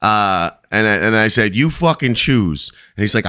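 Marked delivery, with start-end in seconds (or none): 1.5-2.7 higher, slow retold threat; re-enacted stern challenge, slowed down; retold ultimatum. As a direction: lay down a retold ultimatum word by word. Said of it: "going off on him".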